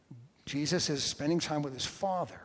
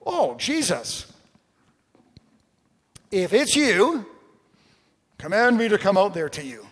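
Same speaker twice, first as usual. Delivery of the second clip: loud, high, hammed-up eagerness; excited, reactionary; 5 semitones higher, 9 dB louder than usual. Peter calling to Jesus from the boat, all excited. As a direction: burst out with big swooping excitement. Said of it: "all excited, very reactionary".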